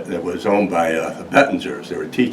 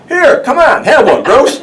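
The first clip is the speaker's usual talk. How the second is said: jolly tipsy offer, much higher and louder, with laughter; drunk offer; 9 dB louder than usual. Retold or imitated. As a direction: hand the angry man a drink, pitched way up. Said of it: "he goes".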